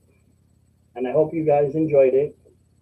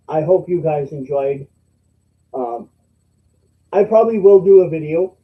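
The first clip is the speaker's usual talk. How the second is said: talking through hiccups; hiccuping; 5 dB louder than usual. Real, not acted. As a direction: hiccups breaking into the words. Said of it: "my hiccups are going nuts".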